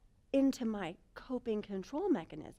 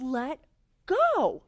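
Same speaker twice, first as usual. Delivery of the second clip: mock yell; 4 dB louder than usual. Trainer shouting at the rider, mock yell. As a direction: shout the command across the field. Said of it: "She yells".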